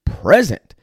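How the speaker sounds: a hint of his past self, pleading to be understood; retelling his own frustrated thoughts. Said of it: "I was like".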